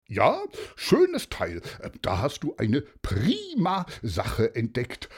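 happy retired inspector; pleased old detective. Acted. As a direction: praise your friend warmly. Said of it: "freute sich Paulus".

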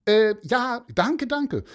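hoch und laut gedankt; fröhlich. Acted. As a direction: strahlend und laut danken. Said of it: "sagte der Mann fröhlich". (Mann dankt Pieper fröhlich, hoch und laut)

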